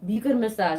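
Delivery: lightly put-on Syrian accent saying "buccal"; imitating a Syrian accent. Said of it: "start saying it with her accent".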